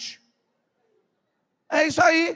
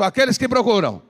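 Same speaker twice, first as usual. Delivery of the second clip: loud line for the crowd to echo; bem alto; 5 dB louder than usual. Shown as a demonstration. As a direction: call it out firmly to the congregation. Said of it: "Fala bem alto". (bem alto, para todos repetirem)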